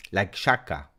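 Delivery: ordinary delivery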